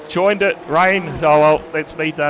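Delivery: loud, exasperated quitting racer; fed-up driver. Pretend. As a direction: throw your hands up, loud.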